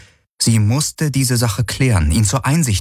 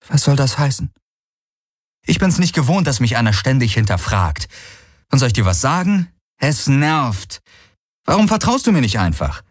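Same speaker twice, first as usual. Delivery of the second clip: put-on young woman's voice, pitched higher and needled; Kirai, irritated; 6 semitones higher than usual. Kirai confronting Galen about his distrust, annoyed and raised. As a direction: bristle at being questioned, voice riding high.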